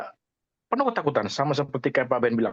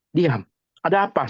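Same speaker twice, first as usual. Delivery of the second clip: louder, higher retold command; mock scolding, voice raised a little; retold stern snap; 3 semitones higher, 4 dB louder than usual. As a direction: imitate snapping at an upset child. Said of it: "saya bentak".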